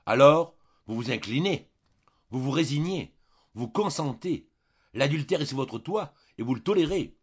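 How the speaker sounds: loud, high, rising reproach; indignant exclamation. A narrator's reading. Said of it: "s'écria". (s'écrier avec indignation, de plus en plus haut)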